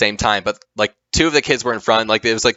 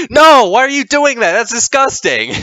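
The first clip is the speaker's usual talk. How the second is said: acted-out frantic alarm, very high and loud; 14 semitones higher, 6 dB louder than usual. Retelling a mom seeing her boys drink the water: imitating a mom freaking out. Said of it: "freaks out".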